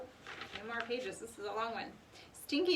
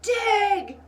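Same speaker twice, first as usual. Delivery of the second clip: loud, much higher barked command; shout; 10 semitones higher, 14 dB louder than usual. A narrator's reading. Captain orders the pirates, loud shout. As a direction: bark it sharp. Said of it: "shouted Captain Bones".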